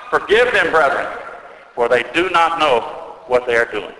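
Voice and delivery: a restrained preacher's imitation of crying out. Metropolitan pleads with outraged people to forgive the soldiers, crying out. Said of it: "he cried out the words of Christ".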